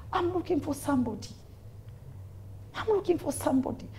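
acted preacher hunting for someone; imitating woman preacher. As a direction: raise the pitch, keep the volume down. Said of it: "You know the way she speaks".

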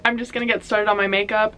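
slushy sh for s, "just" like "zhust"; teeth-whitening strips blurring the "s"; lisp. Real, not acted. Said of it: "Excuse the lisp".

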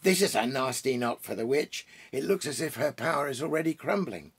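a light touch of glee; gleeful, eager to show them; delighted beaver. Acted. Beaver leading the children to see, mildly gleeful. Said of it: "almost dancing with delight".

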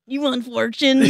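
Mexican accent. Shown as a demonstration. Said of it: "Mexican impression".

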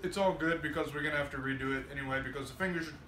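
talking while chewing; words around a bite of food; mouth full. Real, not acted. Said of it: "you don't wanna hear me eat".

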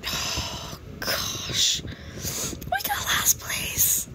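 fake-weep over the loss; mock crying. Player after losing the horse race bet, mock crying in a whisper.

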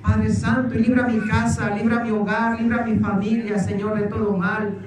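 fervent led prayer with rising pleas; earnest preacher's prayer over the people; leading prayer. Acted. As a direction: pray aloud for the congregation, pressing each petition. Leads congregation in prayer.

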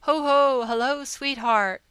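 loud, bright hail from up the pole; cheerful call. A narrator's reading. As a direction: call out across the street to her. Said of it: "called out to me that day".

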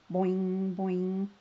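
boing, boing of a hopping frog; storybook hopping noise; bouncy hopping sound. A narrator's reading.

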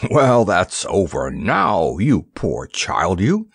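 slow, trembling, indignant pity; shaking with indignation. A narrator's reading. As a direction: let the voice shake with outrage for the child. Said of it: "Atto's voice shook with indignation".

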